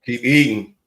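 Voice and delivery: laughing through the words; giggling while saying it. Real, not acted. Laughs as the show closes.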